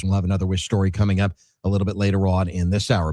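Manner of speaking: steady, measured announcer read; radio sponsor read. Acted. Radio host telling listeners about Wish Club donations, announcer read. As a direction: read the donor perks as on-air copy.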